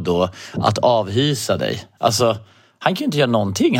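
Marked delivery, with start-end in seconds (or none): none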